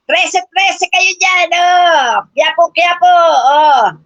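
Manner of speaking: mock barker shouting the route, slow; hammed-up street barker calling passengers; jeep barker call. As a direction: call out destinations like a jeepney barker.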